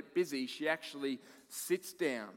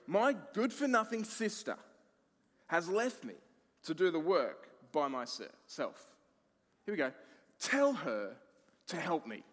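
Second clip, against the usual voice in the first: indignant, higher and louder plea; complaining to the Lord; 4 semitones higher, 3 dB louder than usual. Retold or imitated. Martha complaining to Jesus about her sister. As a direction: whine it like the overworked one. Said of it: "She came to him and asked".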